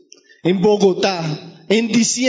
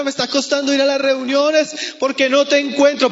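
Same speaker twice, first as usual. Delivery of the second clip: higher-pitched plea to God; acted anguish; 3 semitones higher than usual. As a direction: cry out in prayer, mildly anguished. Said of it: "hay esa angustia". (súplica angustiada, actuada y en tono alto)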